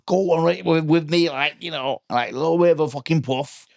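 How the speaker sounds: put-on matey, coaxing go at Craig Charles's accent. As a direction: chat up a pal in an imitation of Craig Charles's accent. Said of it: "try and do it in the accent".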